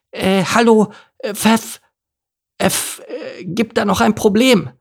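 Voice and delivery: very high, hesitant lisping little donkey; Elimar, lisping donkey. A narrator's reading. Little donkey tries to tell the leader something, high hesitant lisp. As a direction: squeak up timidly with a lisp. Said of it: "durch das Lispeln".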